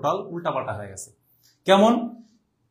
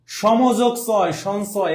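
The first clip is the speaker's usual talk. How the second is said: slow dictation; 2 semitones higher, much slower than usual. Shown as a demonstration. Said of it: "teacher reading the word slowly".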